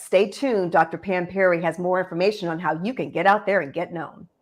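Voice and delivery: punchy anchor tease, fast; announcer voice teasing the next segment; news headline read. Shown as a demonstration. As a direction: deliver it like a TV news bumper. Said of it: "do it like you're delivering a news bite".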